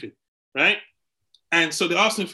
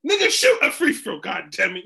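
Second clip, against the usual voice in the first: heckler; 3 semitones higher, 5 dB louder than usual. Retold or imitated. Imitating heckling fans.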